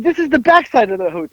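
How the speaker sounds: high-pitched imitation of the driver; mock insistence.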